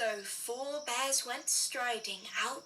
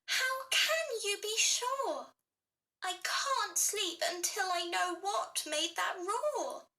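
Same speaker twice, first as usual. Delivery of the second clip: put-on worried child; 6 semitones higher than usual. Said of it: "Baby Bear sniffled".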